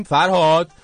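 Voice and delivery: calling out. Real, not acted. Host hailing the app developer on air, calling out. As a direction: call out to get his attention.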